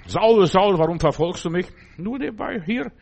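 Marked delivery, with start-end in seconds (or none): 0.0-1.7 loud, raised call of "Saul, Saul". Retold or imitated. The Lord calls out to Saul lying on the road. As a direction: call down from heaven to the man on the ground.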